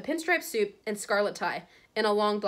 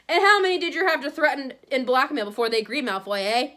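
loud, higher angry challenge; big, raised-voice fury; roared accusation; 5 semitones higher, 6 dB louder than usual. A narrator's reading. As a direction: roar it at your enemy. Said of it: "he roared".

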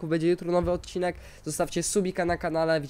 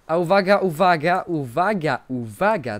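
announcing; 4 dB louder than usual. Real, not acted. Announcing the fort to viewers.

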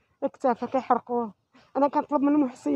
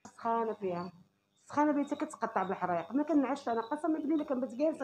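quiet, broken voice; weary and near tears, softly; despairing, quiet; 3 dB quieter than usual. Real, not acted. Mother's despair over daughter. (بصوت حزين منكسر)

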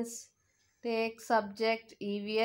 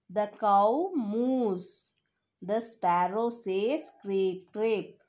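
put-on reading to a toddler. Repeats song for children.

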